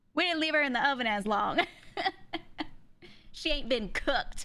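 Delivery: put-on Mississippi accent. Retelling what a neighbor from Mississippi would say: thick Mississippi accent. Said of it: "So she'd say it in this accent".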